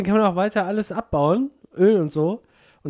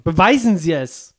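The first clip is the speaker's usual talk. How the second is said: mock debate challenge; 5 dB louder, slower than usual. Mock talk-show quarrel.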